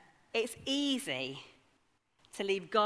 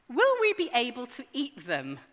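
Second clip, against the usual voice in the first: mildly amazed question, higher and louder; amazed children; 4 semitones higher, 5 dB louder than usual. Acted. Children asking dad about bean pods, mildly amazed. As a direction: ask it with a child's wonder, lightly voiced. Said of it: "They both asked in amazement".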